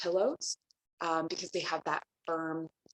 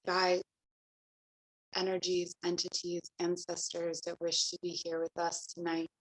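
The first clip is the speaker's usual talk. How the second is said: calm, even meditation voice with long pauses; guided meditation. Acted. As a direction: guide them gently into the breath, leaving space between phrases. Leads breathing meditation and invocation.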